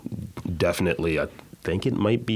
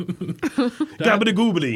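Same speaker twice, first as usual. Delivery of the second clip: slow high mock Italian babble; fake Italian gibberish; 10 semitones higher, 3 dB louder, much slower than usual. Shown as a demonstration. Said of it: "speak with a fake Italian accent".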